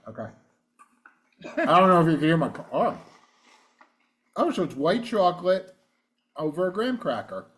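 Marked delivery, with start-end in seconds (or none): 1.8-7.5 chewing while talking; talking with a mouth full of candy. Real, not acted. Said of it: "I'm gonna talk with my mouth full".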